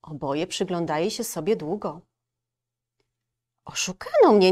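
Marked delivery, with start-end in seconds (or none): 3.6-4.5 louder wolf line; wolf stating. Acted. Wolf realising the girl is harmless, stated. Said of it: "stwierdził wilk".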